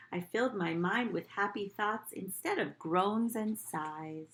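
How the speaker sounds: put-on gentle read-aloud to children; storybook reading. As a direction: read it like storytime for little kids. Teacher reads picture book aloud.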